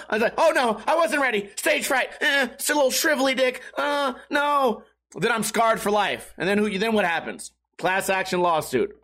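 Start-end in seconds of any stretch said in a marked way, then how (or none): 0.4-4.8 flustered stage fright. Retold or imitated.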